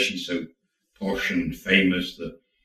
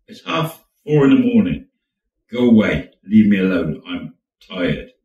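irritated dismissal; 6 dB louder than usual. Acted. Man woken at half four sends her away, irritated. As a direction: send them away, voice sinking on the last words.

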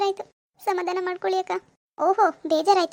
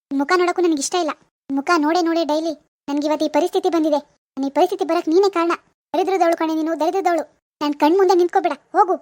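furious scolding; 3 dB louder than usual. Acted. Furious quarrel with sister-in-law.

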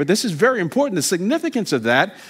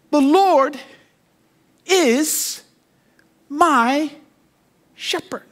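climactic proclamation; 9 semitones higher, much slower than usual. Acted. Preacher climaxes on verse.

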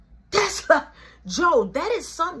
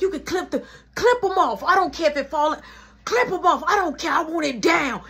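angry demand; 5 semitones higher, 3 dB louder than usual. Retold or imitated. Mom demanding TV off.

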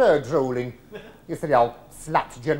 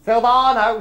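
louder call across the room; 5 semitones higher, 6 dB louder than usual. Real, not acted. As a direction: summon the waiter again, louder. Calling again.

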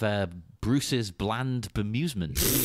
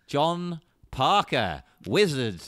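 grand, slow, louder wizard proclamation; 4 dB louder, slower than usual. Acted. Host introduces himself as Wizard of Foon, mock-grand wizard voice. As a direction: announce yourself like a wizard rising to glory. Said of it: "keep the wizard voice going".

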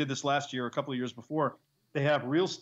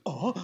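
exaggerated anime gasp; 3 semitones higher than usual. Shown as a demonstration. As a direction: gasp in mock shock. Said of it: "Gasping in anime".

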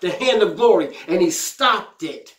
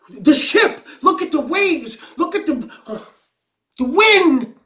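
high, pleading cry of frightened men; desperate cry to the Lord; 5 semitones higher than usual. Retold or imitated. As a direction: beg the Master to wake and help. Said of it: "they cried out".

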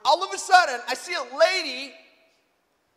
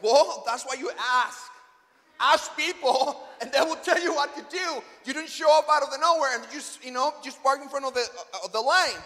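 retold yelling. Man scolding the lady who cut in, yelling. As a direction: lecture someone in a mild mock yell. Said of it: "when I was yelling to the lady".

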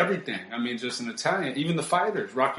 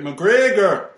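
drawn out; 8 semitones higher, 10 dB louder than usual. Real, not acted. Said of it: "Oh, Colin McGregor".

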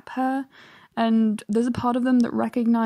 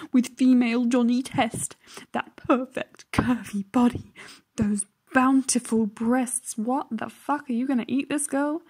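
mock creepy commenter voice. Shown as a demonstration. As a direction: drag it out like a lovestruck creep reading his own post. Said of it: "do this again in the voice".

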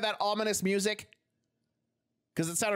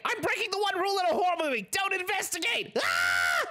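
rising, higher panicked shout; being chased; 11 semitones higher than usual. Real, not acted. Realizes, ghost chases.

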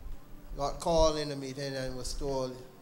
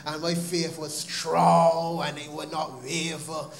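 mock pious boast; 3 dB louder than usual. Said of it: "I wish I could stand up here and say".

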